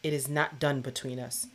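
reading aloud. Shown as a demonstration. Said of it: "Second to last paragraph".

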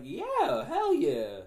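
loud, high-pitched "hell yeah" energy; defiant yell. Retold or imitated. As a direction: throw it back loud and unapologetic. Retold defiant comeback to her complaint.

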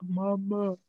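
a small pleading puppy calling out. Acted. Puppy calling to its owner, lightly voiced puppy voice. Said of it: "that's how he talk".

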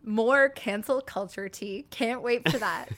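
mock-excited whisper; whispered sarcasm. Real, not acted.

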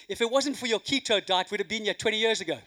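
hammed-up husband blaming his wife, rising to a laugh; mock exasperated rant. Husband's rant to wife, joke punchline.

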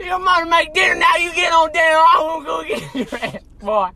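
hollering hillbilly dad; appalachian accent. Retold or imitated. Dad calling son downstairs.

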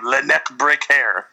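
put-on deliberate French-accented monster name; hokey French lilt on the nickname; mock French accent. Insisting that's really his name, mock French accent. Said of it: "that's his name".

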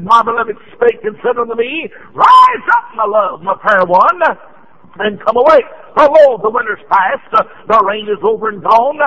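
rising preacher's reading, shouted peak on "Rise up"; fervent scripture reading. Acted. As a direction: build the verse into a cry. Preacher reads scripture with fervor.

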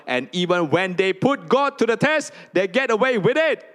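high, loud, whining complaint of the people; complaining people. Acted. Congregation voicing people who complain to God, in a loud, high whine.

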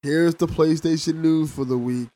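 understated, dry newsreader imitation; mock podcast host. Co-host imitating other podcasts, mildly mocking news-read voice. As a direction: read it like a dull news show. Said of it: "I always found podcasts to be like".

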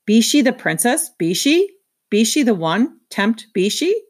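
roach voice. A narrator's reading.

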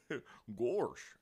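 goofy cartoon catchphrase, drawn out. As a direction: chuckle into a silly cartoon-dog exclamation. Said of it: "poor impression of Goofy's voice".

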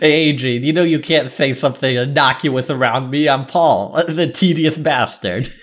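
lightly voiced pedant, a little laughter breaking in; Paul, the tedious bastard. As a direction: announce yourself as a tiresome stickler. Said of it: "This has been a character".

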